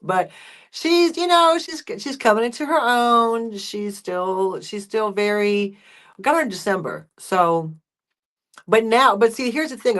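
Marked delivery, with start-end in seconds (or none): none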